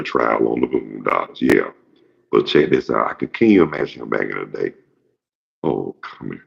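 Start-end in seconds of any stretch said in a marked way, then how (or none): 5.6-6.4 low, soft seductive croon; smooth Batman. Retold or imitated. Batman sweet-talking a lady, in a low, soft, smooth croon. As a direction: murmur it to charm the ladies. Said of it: "He had that kind of voice, like he was smooth".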